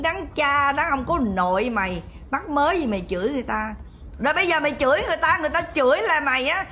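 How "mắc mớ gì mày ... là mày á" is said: fast, heated telling-off rattled out; rapid angry scolding. Real, not acted. Berating the rival Vi Oanh on stream, fast and angry. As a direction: fire the accusations off quickly.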